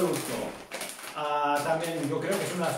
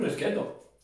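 eating crunchy puffs mid-sentence; talking while chewing. Real, not acted. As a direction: mouth partly full of snack. Seen 0: Puts a puff in his mouth at -2s, then talks while chewing.

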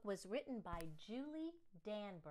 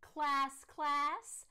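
loud, higher call for attention; calling the class; 5 semitones higher, 6 dB louder, much slower than usual. Acted. Principal calling the class to order, loud.

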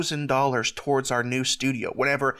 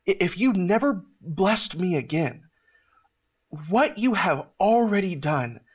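retelling a heartfelt prayer, pitched higher; emotional prayer; 4 semitones higher than usual. Retold or imitated. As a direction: pray it earnestly, voice close to breaking. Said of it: "I said to the Lord".

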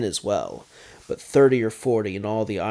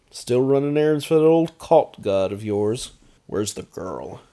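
higher, louder sneering taunt; a cocky baron's higher sneer; mocking vampire baron; 4 semitones higher, 8 dB louder than usual. A narrator's reading. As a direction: needle him about his god. McKinn taunts Conjur.

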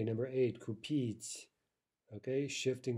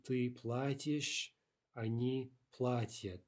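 платишь and платят slowly, stressed on the first syllable; stress shifted back; slower than usual. Shown as a demonstration. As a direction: lean on пла- in платишь, платят. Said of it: "stress shifts backwards".

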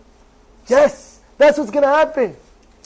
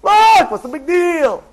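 tempting whisper; 5 semitones higher, slower than usual. Acted. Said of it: "the Yetzer Hara steers you".

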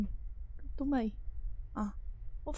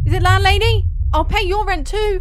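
nervous pleading; 5 semitones higher, 7 dB louder than usual. Real, not acted. Scared again, pleading.

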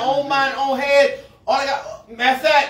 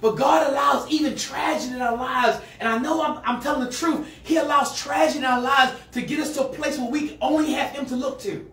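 rising preacher's call to the church; preaching. Real, not acted. Pastor preaching hard to the congregation. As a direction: preach it out with force.

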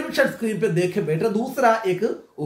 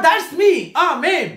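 put-on excited boy; 5 semitones higher, 3 dB louder, much slower than usual. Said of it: "said Mike".

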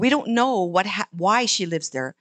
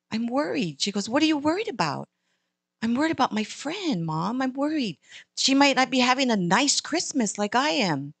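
put-on worried little girl; 4 semitones higher than usual. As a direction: fret like a little girl to mom. Girl tells mom she's worried.

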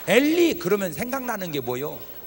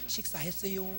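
polite standard Korean; 2 semitones lower, 12 dB quieter than usual. Retold or imitated. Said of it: "그걸 물어볼 때도요".

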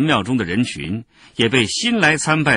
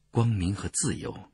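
hushed, softer secret password; low voice at the ear; 6 dB quieter than usual. A narrator's reading. Performer speaking at the noble's ear, hushed. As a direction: murmur it discreetly. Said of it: "在他的耳边低声说".

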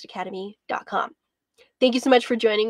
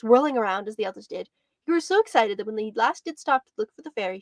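gentle read-aloud storytelling voice; storybook narration; 2 semitones higher than usual. A narrator's reading. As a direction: read it like a bedtime picture book. Reads a picture book aloud.

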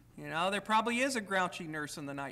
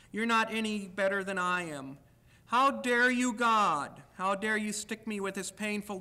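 loud, indignant accusations flung at doctor, wife and God; angry reading; 4 dB louder than usual. Acted. Reading his booklet passage on anger aloud to listeners, indignant and loud. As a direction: read it as raging protest, loudest on each how dare you. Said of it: "a short thing from the booklet I wrote about anger".

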